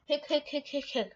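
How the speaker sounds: hiccup sounds; fake hiccups. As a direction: hic hic hic. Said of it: "today I have hiccups".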